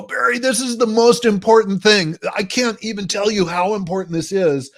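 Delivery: extra energy. Shown as a demonstration. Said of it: "Now that extra energy".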